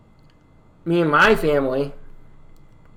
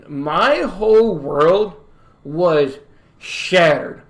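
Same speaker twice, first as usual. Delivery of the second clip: mock-dramatic heartbreak; much slower than usual. Mock-tragic heartbreak retelling.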